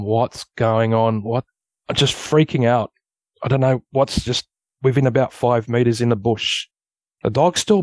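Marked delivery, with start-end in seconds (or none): 0.0-1.4 slow, stunned questioning, mildly acted; retold bewilderment. Storyteller replaying himself facing the shaking tree, mild bewilderment. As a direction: draw it out, lightly replaying your bewilderment. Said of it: "I'm just bewildered".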